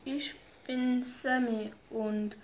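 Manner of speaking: put-on slow, halting nervous boy; stuttering. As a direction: stumble over the words shyly. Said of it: "stotterte Sammy".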